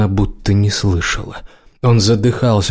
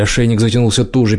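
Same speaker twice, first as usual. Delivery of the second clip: plain reading voice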